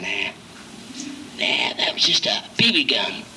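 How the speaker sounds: hushed, unvoiced whisper on "Nah, that was just a B B gun"; calm whispered reassurance. Pastor whispering comfort to a scared counselee. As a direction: soothe him under your breath. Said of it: "I said".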